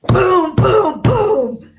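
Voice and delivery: loud, high sarcastic fury; heated outburst, booming punch noises; retold rage. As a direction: act out yelling with each punch. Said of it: "I wanted him dead".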